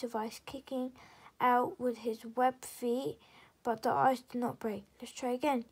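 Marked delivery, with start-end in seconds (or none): 5.0-5.7 breathless whispered panting. Acted. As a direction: pant the words after the jump. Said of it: "he panted".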